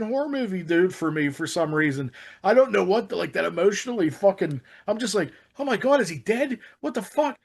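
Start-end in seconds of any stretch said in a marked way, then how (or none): 5.6-7.4 retold horrified disbelief. Re-enacting horror at the film.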